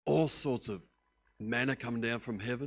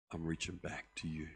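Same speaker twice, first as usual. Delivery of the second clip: ordinary talk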